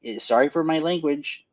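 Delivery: put-on light Upper Michigan Yooper accent, folksy; a hint of a Yooper accent, hammed up. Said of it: "but in the accent".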